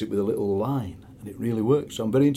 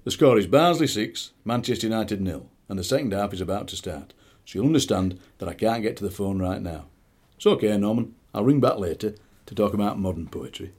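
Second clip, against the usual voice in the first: Norman's answering-machine phone voice. Acted. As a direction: leave a recorded greeting in a telephone voice. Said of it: "with a phone voice".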